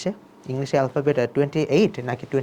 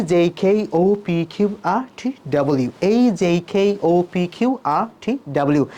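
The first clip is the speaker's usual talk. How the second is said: one-breath letter drill; slower than usual. Shown as a demonstration. Teacher demonstrating a practice drill, letters run together in one breath. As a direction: recite the letters in an unbroken string. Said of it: "এক নিঃশ্বাসে বিশ বার বলার".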